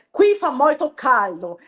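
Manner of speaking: "Qui fa molto caldo" slow, with a lifted, expressive tune; Italian intonation. Shown as a demonstration. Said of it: "Aí você já entona a voz, vai lá pra cima". (entonação italiana, "Qui fa molto caldo" cantado para cima)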